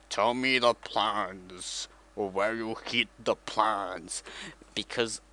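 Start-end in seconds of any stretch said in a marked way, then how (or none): 0.1-4.2 slow, slightly low, lightly voiced Vader; Darth Vader voice. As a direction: drag the words out like a mild Vader. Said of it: "Darth Vader's just like".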